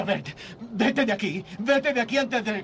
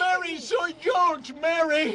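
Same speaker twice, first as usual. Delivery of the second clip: desperate cry; 5 semitones higher, slower than usual. Acted. Wife doesn't recognize him.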